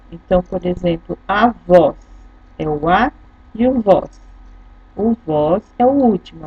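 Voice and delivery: ordinary delivery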